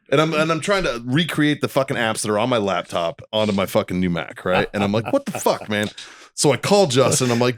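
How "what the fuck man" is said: exasperated disbelief. Retold or imitated. Retelling his new Mac trouble to friends, exasperated. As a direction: pitch it up in mock bewilderment. Acted frustration with new computer.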